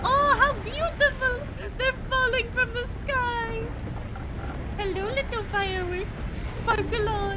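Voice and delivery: acted wonder. Character marvels at falling stars.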